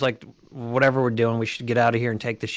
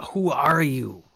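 slow whisper to the spirit; hush, ask the unseen voice; whispered question; 2 semitones higher, slower than usual. Acted. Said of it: "whispers to the voice".

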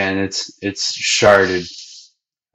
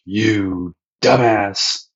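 slow, dragged-out insult; capital D dumbass; much slower than usual. Retold or imitated. Sanji calling Luffy a dumbass, slow and dragged out. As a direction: stretch every syllable with contempt. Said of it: "With a capital D, dumbass".

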